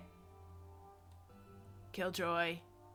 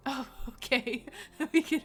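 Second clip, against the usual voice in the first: laughing; 4 semitones higher, 3 dB louder than usual. Real, not acted. Laughing reply.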